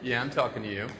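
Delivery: gentle, lightly sincere lines for the crowd to copy; sincere affirmation. Shown as a demonstration. Leading the crowd in repeat-after-me, lightly sincere and warm. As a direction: say it like you mean it to their face. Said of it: "I say it, you repeat it".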